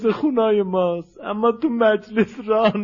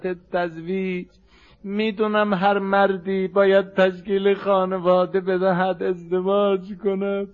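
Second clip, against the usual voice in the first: restrained, sorrowful rawzeh voice; subdued mourning recitation. Acted. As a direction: deliver the dying wishes gently, as a lament. Recites Fatima's last wishes.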